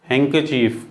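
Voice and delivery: हैंकरचीफ as "hang-ker-chief"; silent D. Shown as a demonstration. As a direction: drop the d in हैंकरचीफ. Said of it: "हैंडकरचीफ नहीं है". (हैंकरचीफ में डी silent)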